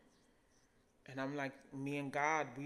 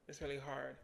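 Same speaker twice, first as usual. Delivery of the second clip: softer, fading repeat; near-whispered echo of the first line; quiet, emotional; 7 dB quieter than usual. Real, not acted. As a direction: let it sink almost to nothing. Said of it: "trying not to get emotional on this camera".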